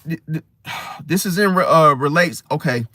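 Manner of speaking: stammering, too cold to talk; teeth-chattering cold stutter; shivering from cold. Real, not acted. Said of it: "I'm freezing in this car".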